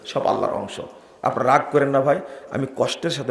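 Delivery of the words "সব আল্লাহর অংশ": hushed aside. Real, not acted. Whispered blasphemy aside.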